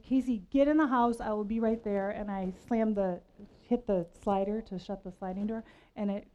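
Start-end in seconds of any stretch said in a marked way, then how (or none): 0.0-2.1 mild mock anger. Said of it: "and I said".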